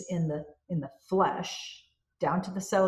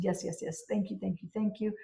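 grateful thanks; 2 semitones higher, 4 dB quieter than usual. Pretend. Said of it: "in gratitude".

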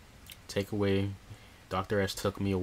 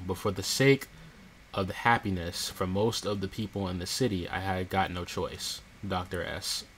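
dramatic reading. Acted. Reads game diary text.

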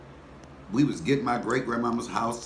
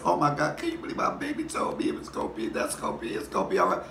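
imitated high, choked crying voice; mock a tearful wail that drops at the end; tearful great-grandmother; 5 semitones higher, faster than usual. Great-grandmother moved by child's comforting words, imitated tearful voice. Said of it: "she is just crying".

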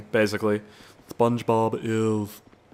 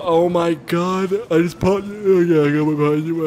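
excited panic; 6 semitones higher, 6 dB louder than usual. Real, not acted. Tires popped, chaos.

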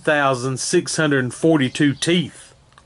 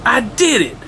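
excited; 5 semitones higher than usual. Acted. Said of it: "cheered Leonardo".

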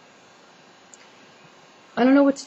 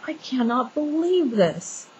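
slow, higher-pitched disbelief; retold disbelief; 4 semitones higher, 4 dB quieter, slower than usual. Woman recalling a stranger peeking in her windows, disbelieving. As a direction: draw it out, incredulous.

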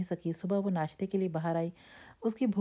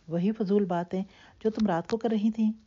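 sharp, louder scolding from mother; mother scolds daughter, sharp and louder; 3 semitones higher, 4 dB louder than usual. Acted. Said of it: "سلمہ نے تیز لہجے میں کہا".

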